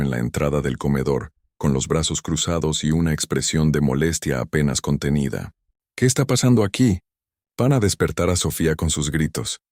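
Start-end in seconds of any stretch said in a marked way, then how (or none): 6.0-9.6 wife bursting in on the argument, irritated; annoyed demand. Acted. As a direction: cut in, barely containing annoyance.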